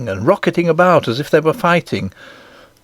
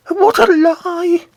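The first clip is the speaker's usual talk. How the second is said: very high, drawn-out outrage; high-pitched indignant cry; enraged roar; much slower than usual. A narrator's reading. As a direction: stretch it out as a furious queen. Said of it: "roared the Queen in a rage".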